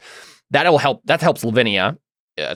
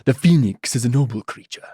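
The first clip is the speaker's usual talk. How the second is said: Git. Acted. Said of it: "Git says".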